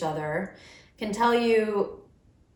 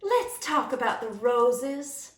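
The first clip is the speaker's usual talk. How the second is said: slow, breathy Arkansas drawl; imitating a grandmother's Arkansas accent, slowly; slower than usual. Grandmother from Arkansas, slow breathy Arkansas accent. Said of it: "she would kinda talk like this".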